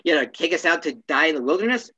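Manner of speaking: a light hint of Larry David kvetching; mild mock exasperation, barely off the own voice; Larry David impression. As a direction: lightly whine it like a sitcom complainer. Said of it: "This is Larry David saying that".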